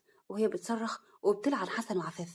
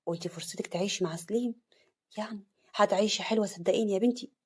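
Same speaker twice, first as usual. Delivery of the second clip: tender. Acted. Father comforting daughter tenderly. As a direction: reassure her gently. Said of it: "أبوها بحنان".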